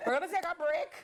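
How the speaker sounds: high voice breaking into laughs; cracking up while trying to carry on; helpless laughter. Real, not acted. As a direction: struggle to talk through the giggles. Host cracking up on air.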